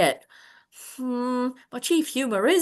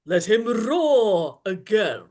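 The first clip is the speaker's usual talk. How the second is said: imitating the Duke; 3 semitones lower, much slower than usual. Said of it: "make the Duke say".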